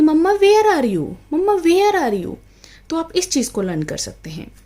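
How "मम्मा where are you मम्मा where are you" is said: slow, higher, louder imitated child call; child calling mom. Son calling out for his mother, imitated call. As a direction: mimic a kid calling for mummy. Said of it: "आवाज़ लगाता है".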